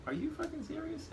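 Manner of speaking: holding back a scream, playing it light; said real light. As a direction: keep it airy though you're furious. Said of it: "I said it real light".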